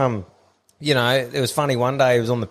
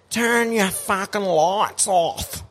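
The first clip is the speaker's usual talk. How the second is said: mock yell; 8 semitones higher, much slower than usual. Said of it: "the next yell was".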